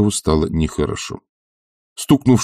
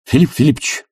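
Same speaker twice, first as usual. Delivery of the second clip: fiery outburst to his mentor; passionate exclamation; 8 semitones higher than usual. A narrator's reading. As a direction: insist with burning conviction. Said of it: "страстно воскликнул Барменталь".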